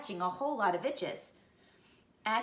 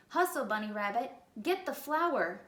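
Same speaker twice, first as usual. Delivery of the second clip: barking orders; 3 semitones higher than usual. Acted.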